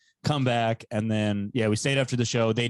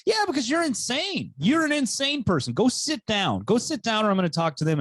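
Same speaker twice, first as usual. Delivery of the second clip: retold outburst; 9 semitones higher than usual. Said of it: "I'm like".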